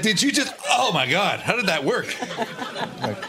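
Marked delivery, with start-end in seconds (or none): 0.0-2.1 high astonished voice; amazed early caller. Retold or imitated. Panelist imitates a baffled first phone user, high-pitched. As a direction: gasp it high in wonder. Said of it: "He's like".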